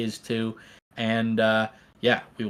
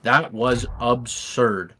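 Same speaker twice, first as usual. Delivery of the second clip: stunned awe; slower than usual. Real, not acted. Caster stunned after the finish.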